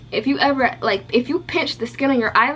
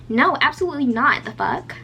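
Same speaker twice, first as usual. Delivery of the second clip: light voice; 2 semitones higher than usual. Retold or imitated. Lash tech refuses to be recorded, imitated light voice. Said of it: "she had kinda like a light voice".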